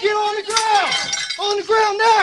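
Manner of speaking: loud, urgent police shout; shouting command. Real, not acted. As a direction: yell the order at full force. Officers arresting a suspect.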